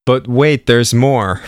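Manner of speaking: lightly mock a TV pitchman; cheesy infomercial. Co-host suggesting a catchphrase, cheesy infomercial style. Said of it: "like, the cheesy infomercials?".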